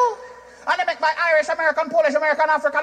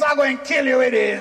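playful threat shout; 3 semitones lower than usual. Acted. Jamaican romance, acted.

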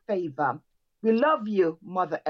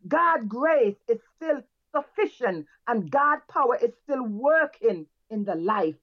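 emphatic preacher, phrases rising then falling away; fervent church exhortation; 2 semitones higher than usual. Real, not acted. Church leader closing worship and thanking the pastor, fervent exhortation. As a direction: exhort the congregation in short, punched phrases.

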